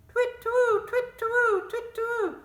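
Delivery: very high hooting owl call. Shown as a demonstration. Teacher demonstrates the moon action with a high owl hoot. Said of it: "make an owl noise".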